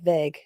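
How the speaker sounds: "vague" with a short eh, like veg; American "vague". Shown as a demonstration. Host repeating how y'all say it, "vague" as veg. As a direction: copy American "vague", rhyming with leg. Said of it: "you, y'all say vague".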